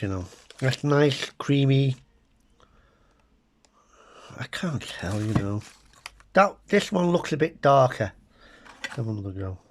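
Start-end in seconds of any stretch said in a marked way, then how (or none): 4.4-5.6 soft whispered aside. Real, not acted. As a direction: breathe it out as a secret. Blind butter taste test.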